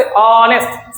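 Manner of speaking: ऑनेस्ट with a drawn-out first vowel; opening vowel sound. Shown as a demonstration. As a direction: let ऑनेस्ट open on the vowel, no H. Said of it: "आ निकला मुंह से". (ऑनेस्ट का पहला स्वर खींचकर)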